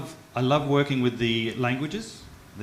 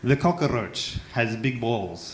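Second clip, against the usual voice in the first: slow punchline; slower than usual. Shown as a demonstration. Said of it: "if I say it in English".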